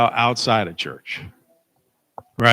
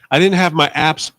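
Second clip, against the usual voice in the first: dramatic whine; 4 semitones higher, 4 dB louder than usual. Retold or imitated. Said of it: "I'm being a little bit more dramatic".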